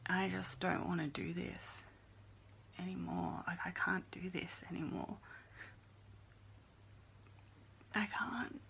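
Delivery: broken, tearful, barely voiced; sobbing despair. Real, not acted. Apologizing to her viewers, real crying. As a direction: say it crying, worn out.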